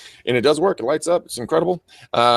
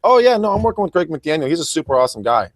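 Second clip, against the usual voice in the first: mock client; 7 semitones higher than usual. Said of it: "at the end of the day, like".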